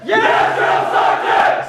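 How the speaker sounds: yes sir military replies. Real, not acted. Recruits reply in chorus.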